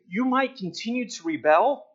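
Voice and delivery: a touch of a triumphant God; voicing God. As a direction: speak as God brushing off the rebels. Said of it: "as if God is saying".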